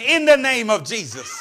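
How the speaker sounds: loud, triumphant echo; repeating out loud. Retold or imitated. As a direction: call the whispered phrase back loudly. Woman repeats the whisper out loud.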